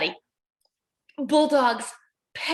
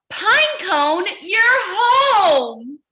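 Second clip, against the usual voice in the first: happy arrival; 6 semitones higher, 6 dB louder, much slower than usual. Acted. Penguin arrives at forest.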